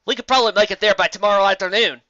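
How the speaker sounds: cheerful farm pony reassuring friends; Applejack. Acted. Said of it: "Applejack replied".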